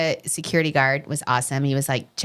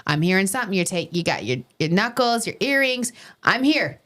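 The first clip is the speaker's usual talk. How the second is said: put-on New York accent; 3 semitones higher than usual. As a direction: play the ready-to-help doorman with a New York accent. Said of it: "I'm doing my New York".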